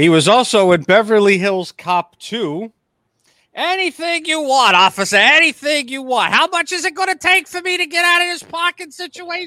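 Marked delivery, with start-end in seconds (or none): 3.5-9.5 very high-pitched character voice. Quoting a line from Beverly Hills Cop Two: Gilbert Gottfried impression. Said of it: "His Gilbert impression's actually really good".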